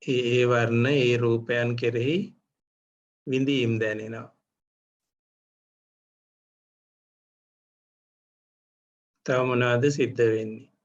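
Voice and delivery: measured meditation guidance with long pauses; guided meditation. Real, not acted. Teacher leads meditators to notice seeing, guided meditation. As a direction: guide them phrase by phrase, leaving room to observe.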